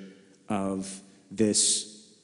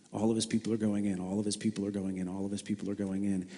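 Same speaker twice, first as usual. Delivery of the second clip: each repeat softer, fading quieter; emphatic repetition; 5 dB quieter, faster than usual. Shown as a demonstration. Preacher repeating the line to the congregation, fading softer. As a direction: let the refrain sink down. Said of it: "triple repetition".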